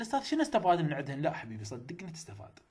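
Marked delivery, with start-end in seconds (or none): 0.0-1.2 a quick, doubting student's question; doubtful student. Retold or imitated. Teacher voicing a student doubting the method, quick. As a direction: rattle it off like a sceptical pupil. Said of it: "راح تقول لي".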